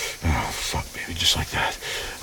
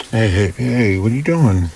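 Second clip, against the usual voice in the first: surprised; 6 semitones higher, 5 dB louder than usual. Acted. Caught off guard in shower.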